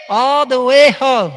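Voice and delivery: high, loud laughing squeal on the last words; storybook piggy ending squealed with laughter. Acted. Squealing the piggy rhyme's end.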